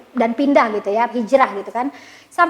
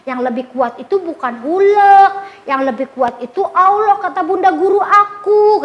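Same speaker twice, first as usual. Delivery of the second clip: put-on insistent little boy; 4 semitones higher, 3 dB louder than usual. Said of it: "Terus Banu bilang".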